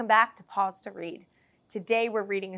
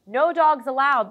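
higher, louder gruff guard voice; 6 semitones higher, 10 dB louder, slower than usual. Acted. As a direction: shoo the dogs off like a grumpy guard.

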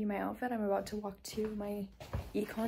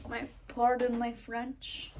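terrible French accent; slower than usual. Shown as a demonstration. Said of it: "that was a terrible accent".

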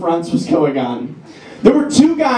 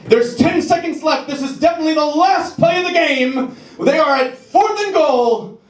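sports announcer; 6 semitones higher than usual. Retold or imitated. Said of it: "they're like".

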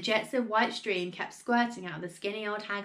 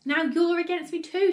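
loud, high accusation; raised voice, outraged; indignant shout; 9 semitones higher, 7 dB louder than usual. A narrator's reading. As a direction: round on them as a wronged grandma. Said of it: "shouted Grandma".

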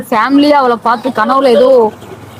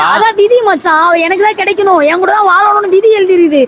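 higher, rising upset protest; emotional outburst; 5 semitones higher than usual. Acted. Lovesick man protesting to his friend, worked up and higher. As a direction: cry out against fate, worked up. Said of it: "ஏன் இப்ப emotional ஆவற?".

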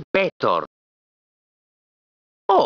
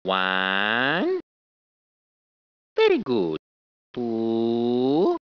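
counting exercise; 11 semitones lower, 5 dB quieter, much slower than usual. Shown as a demonstration. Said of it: "You do just like Mario".

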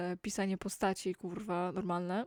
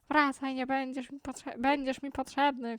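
louder, higher call after the fleeing clown; shout; 6 semitones higher, 7 dB louder than usual. Acted. The villain shouts at the fleeing clown to come back. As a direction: yell it after him. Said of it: "krzyknął wodociąg".

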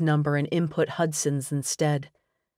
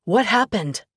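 louder, urgent question with stress on what; demanding; 5 semitones higher, 4 dB louder than usual. A narrator's reading. Friend rushing to the car, demanding answers. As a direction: insist on an answer now. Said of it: "he demanded".

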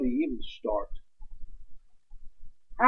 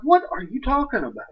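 puzzled husband; 8 semitones higher than usual. Retold or imitated. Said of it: "And I'm like".

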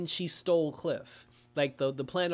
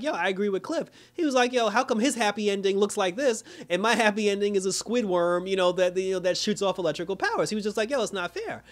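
higher whiny retelling of Larry griping; whiny complaint; 5 semitones higher, 3 dB louder than usual. Retold or imitated. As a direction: gripe like it's so unfair, a bit louder. Larry voiced complaining about unfairness.

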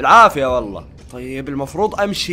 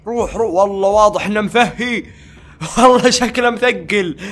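laughing; 2 semitones higher than usual. Real, not acted. Player laughs about the cook sleeping after lunch. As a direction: talk through chuckles.

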